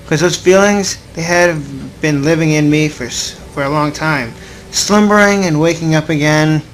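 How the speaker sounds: slow, measured reading of the narration; story narration. Acted. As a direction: read it like an inner monologue, unhurried. Reads visual novel narration aloud.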